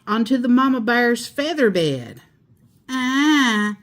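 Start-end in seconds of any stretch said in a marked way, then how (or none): 2.9-3.8 a long, slightly raised "ah" of relief; contented sigh. A narrator's reading. Dusty Locks flops onto the feather bed, contented sigh. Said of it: "sighed Dusty Locks".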